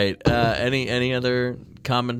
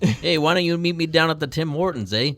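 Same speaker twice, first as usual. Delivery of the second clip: put-on Canadian accent; 5 semitones higher than usual. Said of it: "You're getting pretty European".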